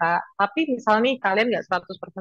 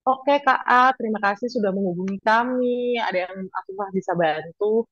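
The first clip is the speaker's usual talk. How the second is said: customer service voice. Shown as a demonstration. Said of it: "kita harus jadi personal assistant".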